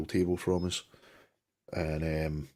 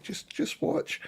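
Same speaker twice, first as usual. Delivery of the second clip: confident whispered aside; slower than usual. Retold or imitated. Calming nervous mates in the pub, whispered reassurance. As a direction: lean in and hush it like a sure secret. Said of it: "And I'm like".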